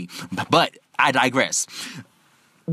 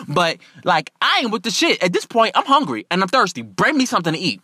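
indignant, disrespectful demands; real indignant; 3 semitones higher than usual. Retold or imitated. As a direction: tell off the staff, rising as you go. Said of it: "Real indignant, real disrespectful".

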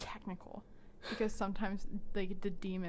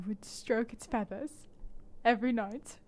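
mock dramatic Jace; 2 semitones higher, 4 dB louder than usual. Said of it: "Very cinematic".

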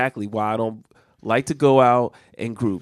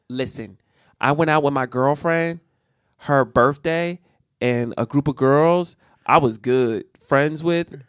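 slow, word by word; slow halting reading; slower than usual. Acted. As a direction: read it out slowly, stumbling. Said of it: "why am I reading like this?".

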